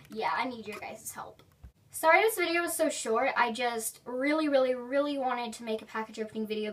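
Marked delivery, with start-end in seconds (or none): 0.1-1.4 soft whispered plea; quiet whispered ask. Real, not acted. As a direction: whisper the request to viewers. Trailing plea.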